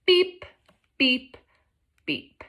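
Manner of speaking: reading along together. Shown as a demonstration. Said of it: "Read it with me".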